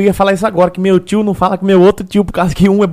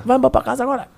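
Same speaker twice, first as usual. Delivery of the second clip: woman's voice; 6 semitones higher, 5 dB quieter, faster than usual. Retold or imitated. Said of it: "a mulher do Pinduca".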